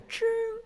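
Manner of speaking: "ching" as a high, R-curled "chrrng"; emphasized R. Shown as a demonstration. Mimicking Beijing speakers, "ching" with exaggerated R. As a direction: curl the tongue hard through "ching", pitched high. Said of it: "really emphasize the R".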